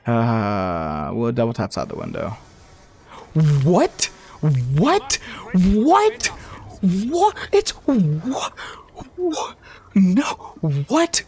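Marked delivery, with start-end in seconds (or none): 3.6-11.2 high, shrill repeated what; gasping, can't believe it; stunned disbelief. Real, not acted. Streamer stunned as the Panzer spawns, shrill.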